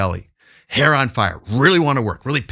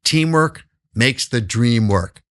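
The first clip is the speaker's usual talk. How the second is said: slow recited motto; much slower than usual. Shown as a demonstration. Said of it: "We always say over and over again the cliche".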